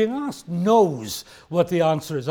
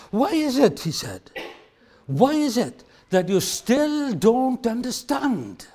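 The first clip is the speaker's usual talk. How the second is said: slow, higher exasperated question; frustrated; 5 semitones higher, slower than usual. Retold or imitated. Jesus frustrated with the disciples, exasperated. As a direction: show frustration at their dullness. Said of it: "you get frustrated like that".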